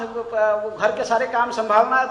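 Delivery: usual speaking voice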